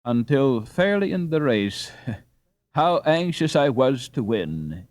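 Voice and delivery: slow words with a laugh. Acted. Peter confessing how much he wanted to win, laughing. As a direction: admit it through a chuckle. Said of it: "he added laughingly".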